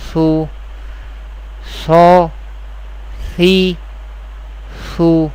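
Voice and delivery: "So", "si", "su" each short and even, set apart by pauses; unstretched harakat. Shown as a demonstration. Teacher models harakat in an Arabic accent, even syllable drill. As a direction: say "So, si, su" without stretching or suddenly cutting the vowel. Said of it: "without stretching or suddenly pausing the voice".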